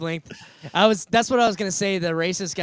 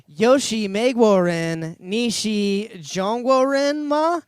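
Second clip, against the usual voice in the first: slow, clumsy attempt at Mandarin with a rising end; bad Mandarin accent; slower than usual. Trying out beginner Mandarin on a lady at the casino, bad Mandarin accent. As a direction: botch the Mandarin question, drawn out. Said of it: "that was the worst accent I've ever heard".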